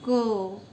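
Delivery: क said loud with a clear अ after it; loud consonant demo. Shown as a demonstration. Teacher showing students that क carries अ: loud क. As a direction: sound क sharply so the अ rings. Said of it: "जब हम क का उच्चारण करते हैं".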